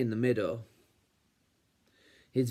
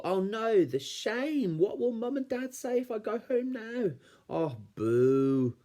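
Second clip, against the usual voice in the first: put-on much higher, childlike panicky lament; distressed wail; 11 semitones higher than usual. A narrator's reading. Little Wolf wails about shame.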